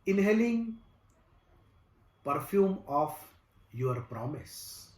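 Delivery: slow, measured recital with long pauses between phrases; poem recitation. Acted. Recites his own poem.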